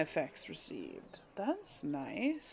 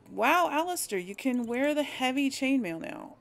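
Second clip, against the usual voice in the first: excited discovery; 5 semitones higher than usual. Real, not acted. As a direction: share the good news with a little burst of excitement. Excited at finding better armor.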